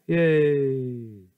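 loud, high drawn-out yay; excited cheer. Real, not acted. Reader cheering a favourite word, excited. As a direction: celebrate it out loud.

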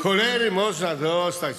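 a loud complaint to Mrs Liza about the leg; exasperated outburst. Acted. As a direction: vent the irritation loudly.

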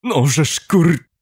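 slow, high, effortful curse; straining groan. A narrator's reading. Man heaving narrator upright, straining groan. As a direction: groan it out mid-lift, cut short. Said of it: "Stęknął".

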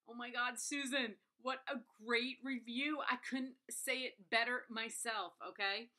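ordinary talk

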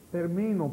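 ter-MI-no, weight on MI; accent the second syllable of "termino"; "termino" stressed in the middle. Shown as a demonstration. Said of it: "termino grave".

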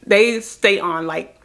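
slight lisp from tooth covers; talking over fake teeth; speaking with veneers in. Real, not acted. Seen 2: Uniform bright white upper teeth visible while she talks throughout.

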